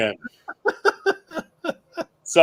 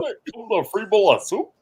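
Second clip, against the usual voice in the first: higher, slow, drawn-out punchline; repeating the movie line, hammed up and higher; mock Dangerfield punchline; 10 semitones higher, 3 dB louder, slower than usual. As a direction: stretch the quote out for the laugh. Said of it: "He goes".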